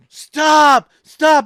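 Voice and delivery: imitating a cop shouting; retold cop yelling. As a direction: bark it like a cop chasing a car. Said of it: "he starts yelling at me".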